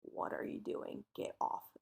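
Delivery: a hushed threatening whisper; mock menacing whisper. Husband in background growls at wife, lightly whispered threat. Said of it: "you keep hearing James go".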